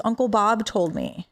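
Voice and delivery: a hint of a two-year-old's voice; little niece. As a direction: imitate a small child telling mommy. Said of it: "my little niece was, like, two and a half".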